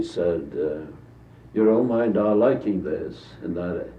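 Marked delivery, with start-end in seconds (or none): 1.5-3.2 a light touch of a British accent, barely put on; a faint hint of a British accent, mostly his own voice; Pound's slight British accent. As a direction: lightly imitate an English-sounding Pound. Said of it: "his British accent, slightly".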